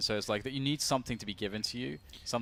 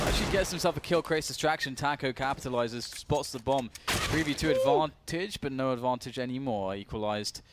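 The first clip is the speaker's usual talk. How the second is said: raised, excited play-by-play; excited commentary; 3 semitones higher, 3 dB louder than usual. Real, not acted. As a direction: hype the play up. Caster excited at a kill.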